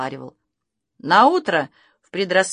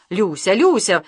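exclaiming; 4 dB louder than usual. A narrator's reading. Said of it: "воскликнул он".

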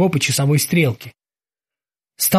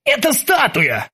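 high, drawn-out cry of discovery; sudden exclamation; 8 semitones higher, slower than usual. A narrator's reading. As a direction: announce a sudden realization, pitched up and slow. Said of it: "вдруг воскликнул он".

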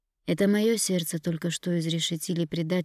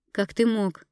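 ordinary delivery

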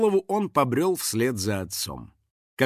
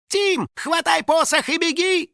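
high, urgent squealing yell; 4 dB louder than usual. A narrator's reading. House spirit urging the boy to run, yelling. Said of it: "завопил Финик".

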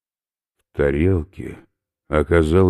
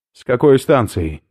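loud, higher gruff voice; he is about to throw up; queasy skinhead; 9 semitones higher, 8 dB louder than usual. Acted. Oberführer warns professor he will vomit, loud and gruff.

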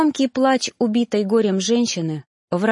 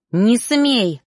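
fierce warning; 3 semitones higher, 4 dB louder than usual. A narrator's reading. Narrator stops the reaper, fiercely warning. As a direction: forbid it outright. Forbids reaper, ready to attack.

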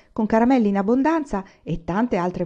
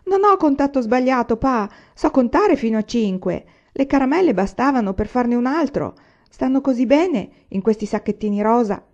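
near tears; 5 semitones higher, 4 dB louder than usual. Acted. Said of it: "Grace stava per scoppiare in lacrime".

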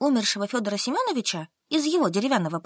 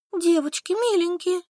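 higher, begging; pleading; 8 semitones higher than usual. Acted. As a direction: plead with your friends. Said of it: "взмолилась Солька". (выше, умоляюще)

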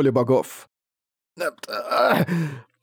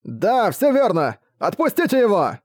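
higher, slow, pleading shout; frightened shout; 8 semitones higher than usual. Acted. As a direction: yell at the orc to let him go. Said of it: "другие последователи тут же закричали".

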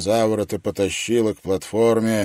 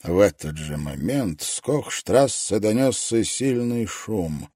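ordinary delivery

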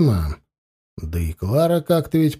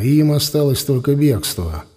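usual speaking voice

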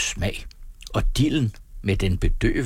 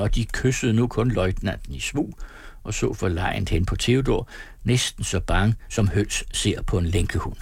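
usual speaking voice

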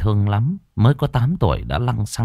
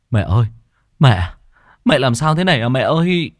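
calling out to his mother, louder and higher; panicked cry; 4 semitones higher, 3 dB louder than usual. Acted. Son finding his mother collapsed, crying out in alarm. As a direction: shout in alarm over her. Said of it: "ôm mẹ mà hét lên".

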